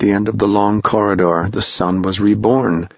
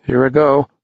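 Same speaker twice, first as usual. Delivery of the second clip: put-on boy voice; 5 semitones higher than usual. A narrator's reading. Tom voiced before stepping.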